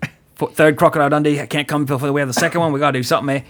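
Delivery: put-on quick, lightly done Australian accent; a rushed, hammed-up Australian accent; bad Australian accent. Host voices Paul Hogan wanting a sequel, bad Australian accent. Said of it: "enough of my bad Australian accent".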